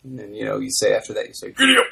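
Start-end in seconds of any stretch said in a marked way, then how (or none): 1.5-1.8 high, loud cowboy holler; gruff cowboy voice. Shown as a demonstration. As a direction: urge a horse on like a cowboy. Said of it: "in kind of a, a gruff cowboy voice".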